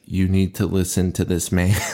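flat robotic monotone, imitating. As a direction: stiff mechanical robot delivery. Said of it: "talking like a robot for some reason".

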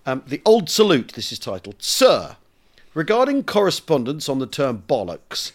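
measured, deliberate storytelling read; letter read aloud. Acted. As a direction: read an old letter to an audience.

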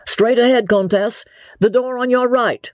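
high, pleasant call from outside; lifted, agreeable calling voice. A narrator's reading. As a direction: call out directions pleasantly, pitched well up. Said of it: "said a pleasant voice outside".

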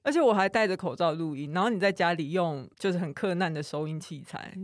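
muffled behind a face mask; talking with a mask on; through a face mask. Real, not acted.

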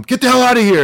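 high, loud dismissal; forceful retold command; imitated police order. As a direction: shoo them off like an annoyed cop. Police ordering Brian away, acted out.

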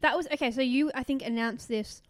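talking around a mint; words round a mint in mouth; mouth full. Real, not acted. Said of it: "sorry, I've got a mint in my mouth".

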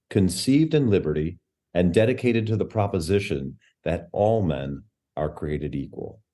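solemn oratory reading; recitation. Shown as a demonstration. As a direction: recite it with gravity. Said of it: "It starts, um, this way".

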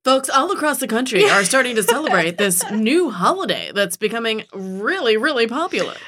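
playful imitation of a newsreader; mock news voice. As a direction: announce it like a breaking trend story. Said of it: "say this in my news voice".

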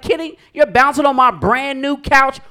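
high, loud scolding mom; mock mom voice. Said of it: "She walked past like".

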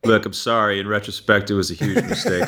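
mock-solemn public apology; hammed-up press statement sorry; fake apology. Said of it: "mock public apology after being blamed".

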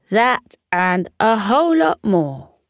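a lightly voiced, fond fox; fond fox reply. Fox laughing answer to the grateful squirrel. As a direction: say it with a grin.

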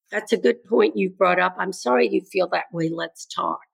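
measured, reassuring response, softening at the end; calm listener acknowledging a child. Acted. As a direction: answer calmly, letting the voice settle. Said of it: "calmly saying".

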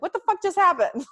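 high, loud, laughing mock shock; laughing disbelief. Friend reacting to the phone voice, in high laughing disbelief. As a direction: crack up in mock bewilderment.

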